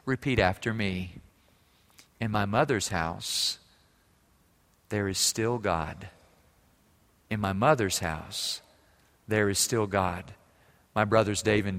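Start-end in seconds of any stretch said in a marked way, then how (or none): 0.0-10.3 soft, slow, loving, with long pauses; calm her daughter down with quiet love; gentle mother. Retold or imitated. Mother gently answering her doubting daughter, soft and slow. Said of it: "gently says".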